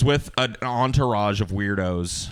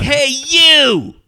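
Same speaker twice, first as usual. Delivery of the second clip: loud high shouted call; mock yell; 12 dB louder than usual. Anna Nicole calling out to the staring stranger, mock shout. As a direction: yell across the street to get his attention. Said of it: "she's like".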